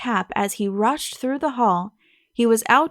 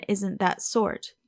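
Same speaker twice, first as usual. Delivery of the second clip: slow, scornful echo of her phrase; slow sarcastic echo, stress on that; mocking repeat; 2 semitones lower, 3 dB quieter, slower than usual. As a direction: throw her words back at her, slowly, with stress on that. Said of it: "tired of hearing that".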